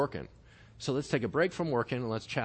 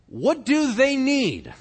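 slow, much higher and louder, weighing each word; preaching emphasis; 11 semitones higher, 8 dB louder, much slower than usual. Real, not acted. Preacher to congregation, a slow loud high question. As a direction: press the question hard on the crowd.

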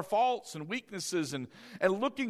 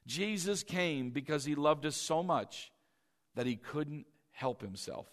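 "Jesus came" repeated, softer and lower, trailing off on "he couldn't help himself"; 6 semitones lower, 5 dB quieter than usual. Shown as a demonstration. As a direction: repeat it softly so it sinks in. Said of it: "I want you to write this down".

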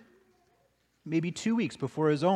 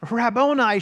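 joyful cry; 5 semitones higher, 6 dB louder than usual. Acted. Mary recognizes risen Jesus.

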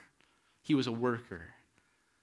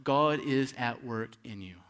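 slow sincere affirmation. Shown as a demonstration. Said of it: "preach the truth ... to yourself".

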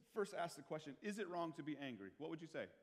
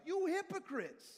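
loud, high and slow outraged shout; thundering angry denunciation; furious rebuke; 8 dB louder, slower than usual. Retold or imitated. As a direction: hurl the words at them in fury. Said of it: "No, he was like".

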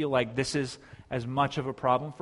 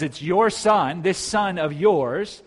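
louder, pointed, drawn-out accusation; bitter older brother; 4 semitones higher, 8 dB louder, slower than usual. Acted. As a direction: throw it accusingly at the father. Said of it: "So he's bitter here".

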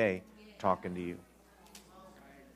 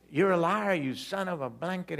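mock angry cussing, pitched up; retold outburst at the preacher; 6 semitones higher than usual. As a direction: hurl a cleaned-up insult. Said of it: "I just cussed out the preacher".

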